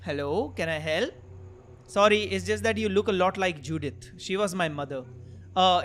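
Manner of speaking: slow, measured English dialogue reading; game dialogue read-out. Acted. Player voicing pizza delivery chat, slow read-out. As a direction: read each line out deliberately, drawing out phrase ends.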